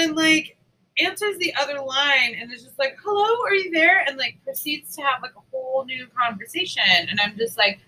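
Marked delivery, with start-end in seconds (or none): 3.0-4.0 high, sing-song, fussy hello; fussy customer on the phone; mock phone voice. Customer answers other line, imitated.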